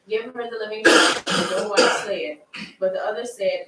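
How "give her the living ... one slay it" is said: put-on loud, desperate plea for the child; a mother crying out to the king for her son, loud and desperate; pleading cry. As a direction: beg the king at full voice to spare him.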